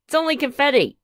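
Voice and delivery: gleeful. Acted. Pete revealing his prank, gleeful. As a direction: crow it with glee. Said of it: "shouted Pete".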